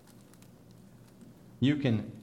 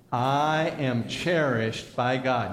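slow, deliberate repeat for a congregation; led recitation; 3 dB louder, much slower than usual. Shown as a demonstration. Preacher has the congregation repeat the statement, slow and measured. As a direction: lead them through it slowly, word by word. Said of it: "Let's say it again".

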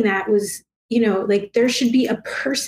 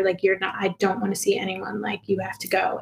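fading to a whisper; 6 dB quieter than usual. Retold or imitated. Retold mantra fading to whisper.

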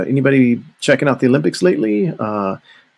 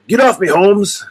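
much higher, louder lowrider voice; lowrider punchline; 10 semitones higher, 4 dB louder than usual. Retold or imitated. Punchline of the friend's lowrider joke, higher and louder. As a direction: deliver the punchline like a lowrider pinned under a trailer. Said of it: "his favorite joke was always the lowrider joke".

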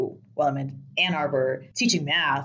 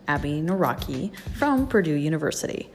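fuzz distortion. Real, not acted. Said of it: "we apologize for the distorted audio".

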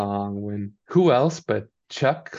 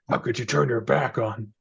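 mock outraged fan; 2 semitones higher than usual. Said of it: a "hardcore" fan of a singer.

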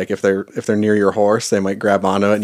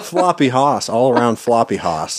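giggling through the words; laughing. Real, not acted. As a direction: laugh it out, amused. Laughing about ragdoll horse.

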